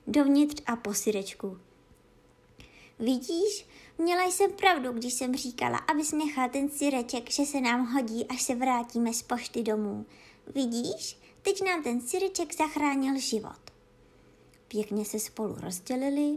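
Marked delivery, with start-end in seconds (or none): 3.0-13.6 cat voice. Acted. Cat says I told you.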